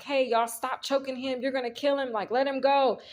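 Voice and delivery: calling out to stop them. Retold or imitated. Yelling to people choking driver.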